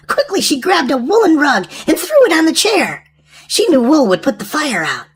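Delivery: put-on reading a storybook to children; lively storyteller read aloud; story narration.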